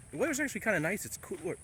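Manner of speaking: wrestler promo voice, fast; Hulk Hogan voice. Pretend. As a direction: hype it like a pro wrestler. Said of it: "This is my Hulk Hogan voice".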